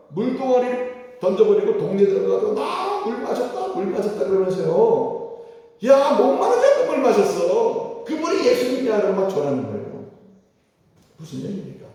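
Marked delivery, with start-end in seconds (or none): 2.5-4.2 high, elated "나 물 마셨다"; a woman giddy with news; excited woman. Acted. Woman telling the village excitedly. 5.8-9.0 a woman spreading the news with joy; excited proclaiming. Acted. Woman shouting the news in town.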